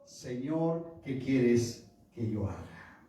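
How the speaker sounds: hushed, slow, submissive plea; fearful, trembling reverence. Retold or imitated. Saulo answering God on the road, acted fearful reverence. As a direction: drop from preaching into slow, humble awe. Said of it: "temblando y temeroso, dijo".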